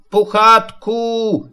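high, drawn-out call; singsong high holler. A narrator's reading. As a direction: call to a friend far away, stretching the name. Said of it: "zawołał Krzyś".

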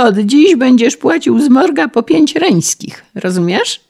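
loud, high, overbearing announcement; imperious decree. A narrator's reading. Official raising the peasant's tax, imperious. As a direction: lay down the order forcefully.

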